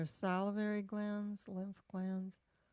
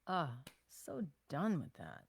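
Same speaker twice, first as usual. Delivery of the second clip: exhaled release; 3 semitones lower than usual. Shown as a demonstration. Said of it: "affirming it with the breath".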